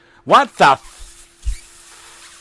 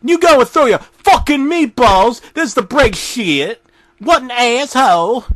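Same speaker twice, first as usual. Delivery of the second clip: angry rant; 4 semitones higher than usual. Acted. Jack ranting at narrator.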